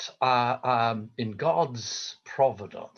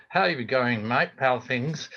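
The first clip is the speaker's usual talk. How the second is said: Australian greeting said through nearly closed lips; mock Australian, lips kept almost shut to keep the flies out; Australian accent; 3 dB louder than usual. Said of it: "why do Australians talk with the accent with their lips together".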